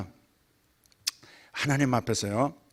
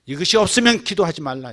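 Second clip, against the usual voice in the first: ordinary talk, nothing marked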